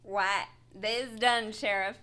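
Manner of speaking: put-on slow Western accent drawl; slow frontier deputy drawl; old-timey Western accent. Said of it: "speak in old-timey Western accents".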